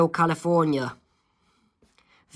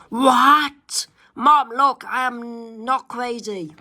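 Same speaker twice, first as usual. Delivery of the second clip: high pleading; 8 semitones higher, much slower than usual. Acted. Daughter protesting to her mom she isn't crazy, high and pleading.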